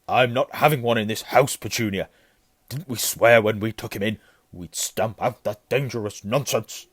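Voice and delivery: loud, forceful uncle; blustering. A narrator's reading. Uncle refuses to house such nonsense, blustering. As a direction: lay down the law loudly.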